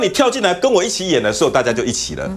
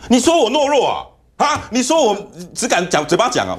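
retold angry retort; 3 semitones higher than usual. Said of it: "就跟我吵架".

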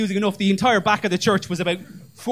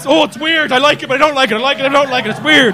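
conflicted voice; 3 semitones higher, 5 dB louder than usual. Pretend. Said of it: "Make it".

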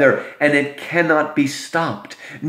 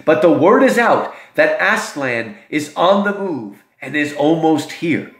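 Mister Beaver. Acted. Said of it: "And he says".

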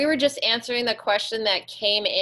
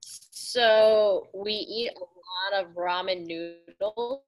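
choppy, dropping out audio; words breaking up over a bad line; bad connection; much slower than usual. Real, not acted. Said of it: "breaking up pretty bad".

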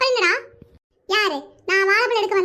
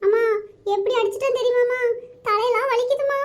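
put-on child's weepy complaint to mother; mildly crying, hurt little voice; tearful whining. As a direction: whine for sympathy, near tears. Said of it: "நீ அழாத புட்டு".

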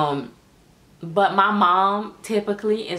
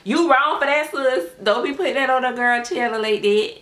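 louder, higher playful telling-off; mock scolding; 5 semitones higher, 4 dB louder than usual. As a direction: scold her like a sassy girlfriend. Scolding a rude commenter, half joking.

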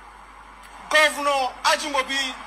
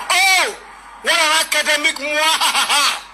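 wild unhinged ranting; 3 semitones higher, 4 dB louder than usual. Acted. Professor's bombastic outburst.

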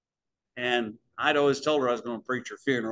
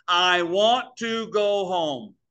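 grandma's last words; 5 semitones higher, 5 dB louder, much slower than usual. Retold or imitated. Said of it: "Last words out of her mouth".

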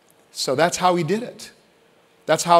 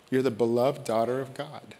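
soft blessing; 3 semitones lower, 8 dB quieter than usual. Acted. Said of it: "when words are spoken over you".

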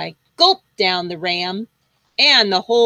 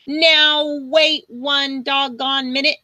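slow, higher indignant farmer; angry farmer; 5 semitones higher than usual. Acted. Farmer stopping the dragon, slow and indignant. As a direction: draw it out like a riled farmer. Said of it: "he said".

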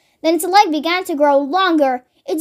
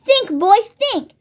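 higher, lightly acted urging; urgent prodding; 5 semitones higher, slower than usual. Father pushing George to remember, urgent prodding. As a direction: press the boy to think, mildly impatient.

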